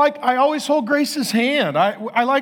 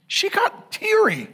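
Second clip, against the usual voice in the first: high, slow words through laughter; chuckling while telling it; laughing; 10 semitones higher, slower than usual. Real, not acted. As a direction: laugh it out in disbelief. Laughing at wife's tears.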